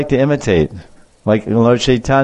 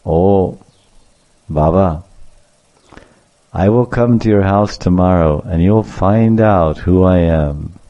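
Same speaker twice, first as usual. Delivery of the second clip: low, measured acted reply; lower, deliberate delivery; knowing promise; 4 semitones lower, slower than usual. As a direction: answer the elder calmly, with pauses and a veiled warning. Boy answers teacher with veiled promise.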